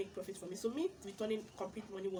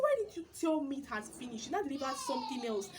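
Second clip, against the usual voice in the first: scolding; 4 semitones higher, 5 dB louder than usual. Retold or imitated. Scolding the supplier.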